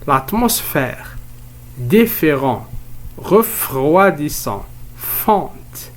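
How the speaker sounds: "l'atmosphère", "Différent", "Refroidissant", "Fonte" said slowly, one at a time; teacher's deliberate list of "l'atmosphère", "Différent", "Refroidissant", "Fonte"; careful word modelling. Shown as a demonstration. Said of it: "écoutez bien ces mots".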